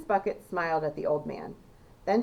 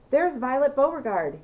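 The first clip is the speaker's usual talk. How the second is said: louder, higher call from the crowd; crowd shout; 7 semitones higher, 6 dB louder than usual. A narrator's reading. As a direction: point her out over the noise. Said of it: "he heard someone shouting".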